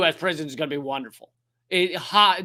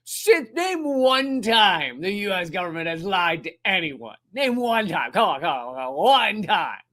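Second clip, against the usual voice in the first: mock challenge. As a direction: play a naive defender daring anyone to answer. Acting out a gullible sarcastic challenge.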